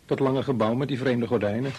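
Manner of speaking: mild mock of the new typist; mocking echo. Real, not acted. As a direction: echo her words with mild scorn. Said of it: "Je was niet erg aardig tegen de schat".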